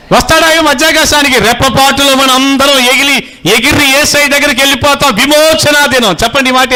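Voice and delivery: high, ringing sermon climax; impassioned preaching. Real, not acted. Preacher rouses congregation about the day of redemption, impassioned preaching. Preaches the rapture at full force.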